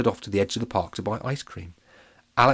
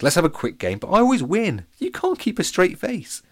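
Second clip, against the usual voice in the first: put-on boastful boy; 11 semitones higher, 5 dB louder than usual. A narrator's reading. Alex boasting in character.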